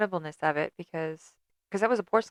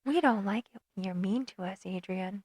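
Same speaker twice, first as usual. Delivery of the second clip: soft creepy doll voice, close in the ear; hushed and eerie, like a haunted doll; creepy little girl whisper; 4 dB quieter than usual. Pretend. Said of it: "creepy ass voice".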